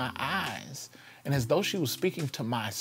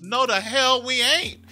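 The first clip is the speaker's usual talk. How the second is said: defiant thought; 11 semitones higher, 8 dB louder than usual. Retold or imitated. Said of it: "honestly, I thought to myself".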